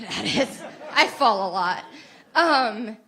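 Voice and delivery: laughing through tears; self-mocking laugh. Real, not acted. Laughs at her own yoga falls.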